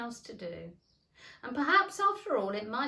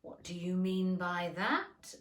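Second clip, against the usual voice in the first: stern; slower than usual. Acted. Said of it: "said the caterpillar sternly".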